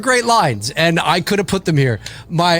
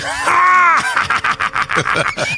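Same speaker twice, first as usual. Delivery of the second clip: villain laugh; 12 semitones higher than usual. Retold or imitated. Imitating Freddy's gloating laugh while peeling his head back. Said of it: "I love the laugh he does too".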